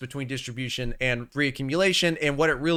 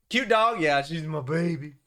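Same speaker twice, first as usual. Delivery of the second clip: doting on dog. Real, not acted. Streamer showing off his dog, doting. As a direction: fuss fondly over your dog.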